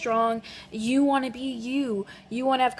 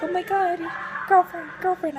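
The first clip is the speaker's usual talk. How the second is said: imitating excited mom; 8 semitones higher than usual. Mom excited about girlfriend.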